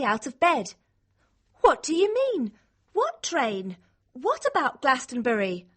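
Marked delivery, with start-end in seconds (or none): 1.6-5.7 high, urgent baffled questions; bewildered. Acted. Girl asks about an unknown train, bewildered. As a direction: demand to know what this is about.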